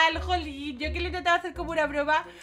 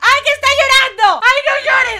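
much higher and louder, alarmed pleading; distressed cry; 7 semitones higher, 14 dB louder than usual. Real, not acted. Girl pleading with her crying in-game boyfriend, loud and high. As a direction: beg him not to cry, alarmed.

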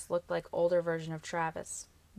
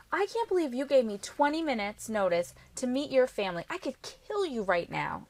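higher, louder, indignant scolding; exasperated; 6 semitones higher, 4 dB louder than usual. A narrator's reading. Girlfriend given no notice to meet his family, exasperated. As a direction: scold in a flustered outburst.

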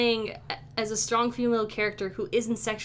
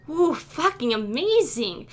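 excited cheer; 4 semitones higher, 6 dB louder, slower than usual. Acted. Player character celebrates.

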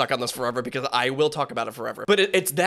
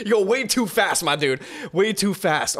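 excited praise; 4 semitones higher, slower than usual. Real, not acted. Praising rapper's speed.

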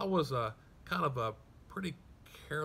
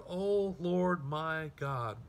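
desperate cry; 5 semitones higher than usual. Retold or imitated. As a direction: drag out O Lord my God in anguish. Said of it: "Do you hear the desperation?".

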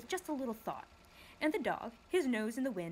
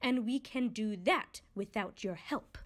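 angry snap; 3 semitones higher than usual. Acted. Lethargarian snapping at Milo, a touch angry. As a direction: snap back at the boy. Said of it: "snapped another angrily".

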